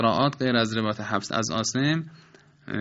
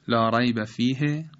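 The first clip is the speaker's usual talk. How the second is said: wrong chopped recitation. Shown as a demonstration. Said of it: "نباید بخوانیم".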